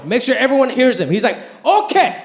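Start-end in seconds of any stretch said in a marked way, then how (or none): 1.7-2.2 calling out, higher and louder; loud announcement. Retold or imitated. Dad announcing to the vendor and crowd, loudly. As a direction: announce it so everyone hears. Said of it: "announces in front of everyone".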